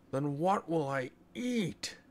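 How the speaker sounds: put-on a touch of childish sadness; rather sadly. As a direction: whimper it like a pouting child. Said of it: "he said rather sadly".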